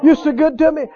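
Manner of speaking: high, loud opening cry of praise; reliving an overjoyed shout to God; joyful shouting. Retold or imitated. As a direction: cry out, then keep repeating it up high. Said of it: "I got up and I got to shouting".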